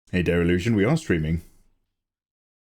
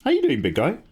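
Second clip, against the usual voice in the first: cutesy high voice; 11 semitones higher than usual. Real, not acted. Greeting a pet affectionately.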